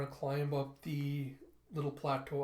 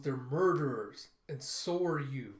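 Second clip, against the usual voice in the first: slow cold anger; 4 dB louder, slower than usual. Acted. Effie accuses Andy.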